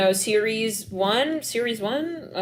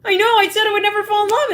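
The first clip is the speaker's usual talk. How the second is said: high, fast, loud gushing; flustered lovestruck gush; excited gush; 12 semitones higher, 6 dB louder, faster than usual. Retold or imitated. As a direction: rattle it off in a giddy rush. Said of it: "I'm hearing that".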